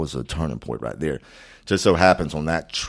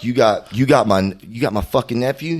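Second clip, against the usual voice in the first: loud, higher-pitched indignation; outraged uncle; 7 semitones higher, 7 dB louder than usual. Retold or imitated. Uncle confronting cop over his arrested nephew, outraged. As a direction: imitate an incensed uncle, raised voice. Acts angry uncle on phone.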